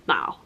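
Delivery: Nile said as "Nal", no long i; corrected pronunciation. Shown as a demonstration. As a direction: say Nile as "nahl". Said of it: "It's Nile, not Nile".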